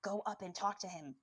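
hushed inner urging; softly nudge, like a thought; quiet voice at the back of the mind; voice in the head. Retold or imitated. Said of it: "I hear this voice in the back of my head".

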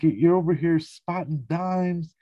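high, slow mock-incredulous yell; Jared freaking out. Recapping a character's rant at George, mock yelling. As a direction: imitate an exasperated accusation, drawn out. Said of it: "He's yelling and freaking out at George".

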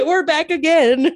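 high laughing repeat. Retold or imitated. Laughing echo of quote.

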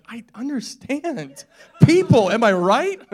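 high, drawn-out comic holler; mock yell. Preacher siding with a yelling TV chef, mock yell. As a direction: yell it in exaggerated sympathy, ready to laugh. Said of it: "When he yells, I'm like".

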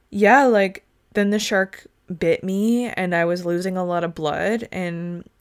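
calm, casual recounting of a near-death attack; matter-of-fact survivor. Retold or imitated. Shark attack survivor telling the story on a show, calm and matter-of-fact. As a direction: imitate someone telling horror matter-of-factly. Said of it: "They're all so calm".

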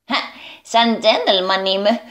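pleased with oneself, showing off; proud. Acted. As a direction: say it with a proud little laugh first. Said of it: "είπε με καμάρι". (με καμάρι)

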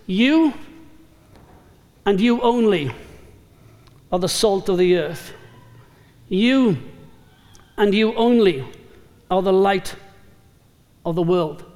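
YOU and YOU ONLY set apart with long pauses; emphatic. Retold or imitated. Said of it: "It's an emphatic style".

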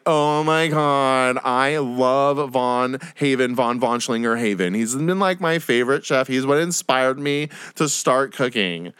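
very slow, swooning fan gush; gushing contestant. Retold or imitated. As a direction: drag it out like a starstruck contestant. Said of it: "contestants are like".

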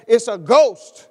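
a high, loud, slow scared cry of "It's a ghost"; panicked disciples shouting at the shape on the water; terrified cry. Retold or imitated. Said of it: "they were terrified and said".

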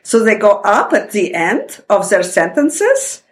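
slow Russian accent with an Australian lilt. Shown as a demonstration. Daughter explaining her parents' speech, in their Russian-Australian accent. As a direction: demonstrate Russian-accented English tipping upward. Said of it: "they have the Russian accent".

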